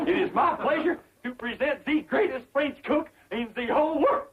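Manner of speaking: grand fake French introduction; put-on French accent. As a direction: announce proudly in a bad French accent. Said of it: "I forgot my French accent".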